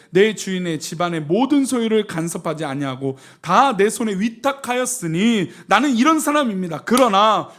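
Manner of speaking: loud, declaimed refusal; forceful scripture reading. Acted. Joseph refusing his master's wife, forceful scripture reading. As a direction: proclaim the verse at full voice.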